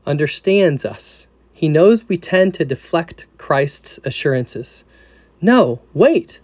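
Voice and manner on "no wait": anxious protest. Retold or imitated. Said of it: "we say".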